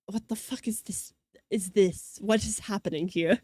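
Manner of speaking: lightly voiced confused stern woman; baffled Von Karma. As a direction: imitate a stunned prosecutor. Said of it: "Miss Von Karma is just like".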